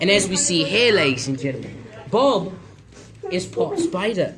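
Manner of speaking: calm wildlife narrator voice; nature documentary. Pretend. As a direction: present it like a nature show host.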